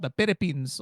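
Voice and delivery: "Philippines" with the F and P sounds muddled; mock mispronounced "Philippines"; P and F swapped. Shown as a demonstration. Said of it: "They say it's a F".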